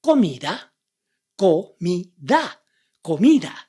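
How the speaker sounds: "comida" with pure o, i, a and a rising end; clear vowel drill. Shown as a demonstration. Teacher drilling "comida" for students. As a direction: repeat "comida" with crisp vowels. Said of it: "O I A".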